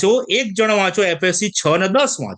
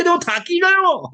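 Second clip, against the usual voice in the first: higher, slow, exhausted lament; weary David; 12 semitones higher than usual. Retold or imitated. Preacher voices David, tired of waiting on God. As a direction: sigh it out as a drained David. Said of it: "આ દાઉદ કે".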